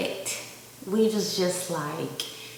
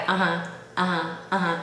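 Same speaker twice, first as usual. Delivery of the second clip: quick listening noises; 2 semitones lower, 4 dB quieter, faster than usual. Shown as a demonstration. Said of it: "I'm always like".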